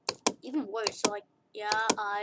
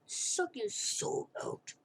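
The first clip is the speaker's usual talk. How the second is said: spooky whisper; 2 semitones higher, 5 dB quieter, much slower than usual. Pretend. Spooky line about soul-sucking smile.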